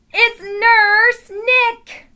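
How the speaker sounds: whispered, then a gasp for "Nurse Nick"; hushed, then gasp in playful surprise; mock surprise. Teacher feigns surprise at visitor.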